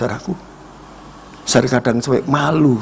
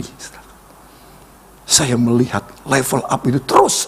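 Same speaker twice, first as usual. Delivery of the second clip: ordinary talk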